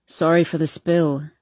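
a hint of a slurring young man; low, lazy and smug; lightly voiced drunk guy. Hardin's voice, lower.

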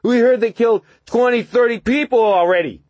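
put-on high, loud slurring drunk; slurred drunk voice. A narrator's reading. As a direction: slur it out drunkenly. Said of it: "came the slurred voice".

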